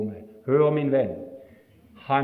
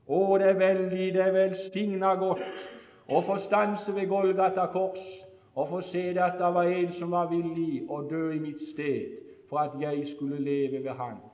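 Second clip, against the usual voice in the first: growing softer, sincere and hushed; tender reflection; 4 semitones higher, 3 dB quieter than usual. Acted. Preacher musing on the cross, quieter and tender. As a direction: let the voice sink in wonder.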